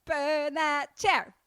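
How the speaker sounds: hammed-up urgent command; mock insistence. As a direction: hammer out each word slowly. Comic urging to burn chair.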